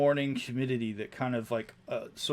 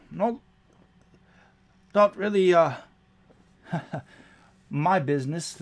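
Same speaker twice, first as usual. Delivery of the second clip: higher goblin voice, hedging with a nervous laugh; hesitant goblin; 3 semitones higher, 3 dB louder than usual. Acted. Goblin warns the crew about visibility, hesitant and higher. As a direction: goblin hemming and hawing about the weather.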